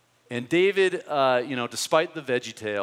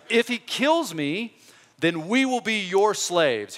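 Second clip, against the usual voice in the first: slow, loud giant's challenge, much higher; booming Goliath; 8 semitones higher, 6 dB louder than usual. Acted. Preacher voicing Goliath's challenge to Israel. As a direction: bellow it across the valley. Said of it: "it was more like this".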